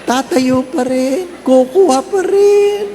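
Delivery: slow mounting mock resolve; mock determination. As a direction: drag yourself up for dessert. Overfull guest still gets dessert.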